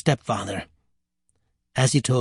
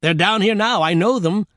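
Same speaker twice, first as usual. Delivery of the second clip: excited devil voice, climbing higher; lightly voiced gleeful devil; snickering devil; 4 semitones higher than usual. Devil recognizing the stepsisters, snickering excitement. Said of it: "the devil snickered".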